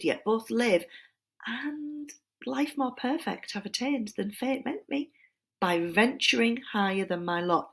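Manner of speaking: a hint of a classical orator in full speech mode; lightly voiced tempter making an impassioned speech. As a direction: plead it like an ancient speaker swaying a crowd. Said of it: "The tempter, all impassioned, thus began".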